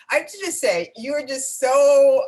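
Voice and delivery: high, bright-eyed gushing compliments; excitedly praising her colleague, effusive and high; gushing praise. Real, not acted.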